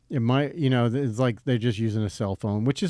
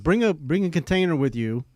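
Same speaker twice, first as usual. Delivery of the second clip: light mock Italian accent on "Bring a container"; imitating an Italian chef's accent, half-hearted; 4 semitones higher, 3 dB louder than usual. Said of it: "try to do the Italian accent".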